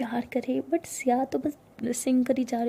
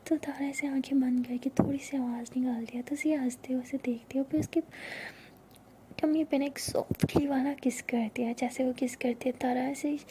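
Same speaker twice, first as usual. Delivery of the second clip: soft intimate storytelling whisper; whispered narration; 3 dB quieter than usual. A narrator's reading. Narrator whispering a love story to listeners. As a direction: breathe the story close to the mic.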